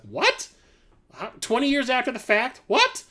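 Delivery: rising disbelief ending in a very high squeak; incredulous what. Retold or imitated. Seeing the sequel trailer, the viewer squeaks in disbelief. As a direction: build the surprise to a high-pitched "What?". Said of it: "and I was like".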